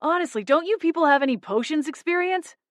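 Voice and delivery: high, exasperated sigh; long-suffering. A narrator's reading. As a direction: sigh it, fed up. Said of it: "with a long-suffering sigh".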